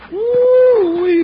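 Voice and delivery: loud high whoop; excited whoop. Acted. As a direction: whoop it out in triumph. Cheering after the knockout.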